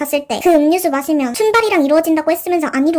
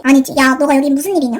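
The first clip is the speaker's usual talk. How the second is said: usual speaking voice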